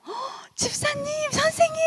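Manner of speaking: gasp, then very high delighted calling; high-pitched mock squeal of welcome; excited youngsters. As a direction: imitate young people running up to greet you. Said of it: "이러면서 막 또 뛰어와요".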